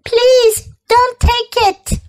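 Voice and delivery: high, squeaky little bee; buzzing insect voice. Acted. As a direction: play a tiny buzzing bee. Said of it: "buzzed the bee".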